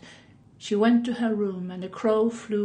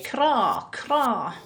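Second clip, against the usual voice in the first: croaky crow call kra; crow caw; 2 semitones higher than usual. Shown as a demonstration. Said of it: "why not simply make a crowing sound now".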